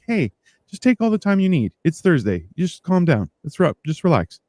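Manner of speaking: lightly acted take-it-easy tone; reassuring. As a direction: imitate a kindly customer calming someone. Retold reassurance to rushed clerk.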